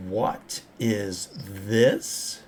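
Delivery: slow NPC voice. Acted.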